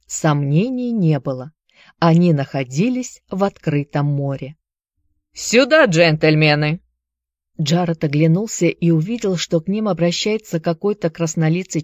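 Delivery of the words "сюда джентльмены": loud call across a deck; sailor calling out. Acted. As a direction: shout them over, rough and loud. Sailor calls them over.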